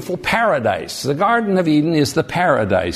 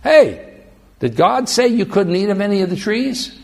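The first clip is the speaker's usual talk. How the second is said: sly serpent; 3 semitones higher than usual. Acted. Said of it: "the snake says".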